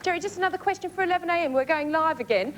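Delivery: hammed-up English accent; bad English accent. Reporter questioning a pop star live, in a bad English accent. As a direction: put on a poor English accent. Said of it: "my crap English accent".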